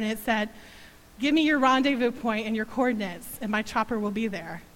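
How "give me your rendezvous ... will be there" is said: strong voice. Retold or imitated. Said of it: "strong voice came across the phone".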